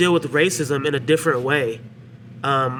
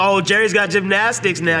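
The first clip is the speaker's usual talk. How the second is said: slightly raised, ribbing tone; mock teasing; 5 semitones higher than usual. Brothers ragging on Jerry in the car, mock teasing. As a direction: rag on him, imitating his teasing brothers. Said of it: "they rag on him".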